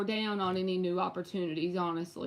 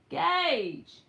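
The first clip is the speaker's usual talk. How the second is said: loud high call across the house; 7 semitones higher, 3 dB louder than usual. Real, not acted. Mother calling her son from another room, loud high call. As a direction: shout the son's name from the other room.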